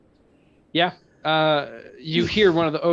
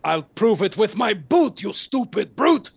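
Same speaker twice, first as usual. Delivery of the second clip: taunting giant; 5 semitones higher, 4 dB louder than usual. Acted.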